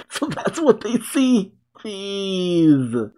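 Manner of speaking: high, laugh-filled words. Real, not acted. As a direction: talk through real laughter, pitched high. Laughing while reacting to show.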